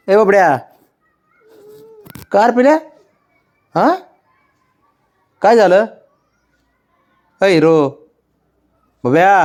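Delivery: high, loud fussing over the dog; pet talk. Real, not acted. Owner fussing over her upset dog, high and loud. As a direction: ask the pet what's wrong, high and loud. Calling pet, asking what happened.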